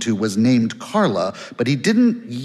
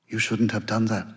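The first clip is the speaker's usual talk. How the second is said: a lightly voiced hoarse, strained reproach; hoarse and forced; 6 semitones lower, 6 dB quieter than usual. A narrator's reading. Woman on the phone reproaching Ebling, hoarse and forced. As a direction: push the words out as if they hurt a little. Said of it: "Her voice was hoarse and forced".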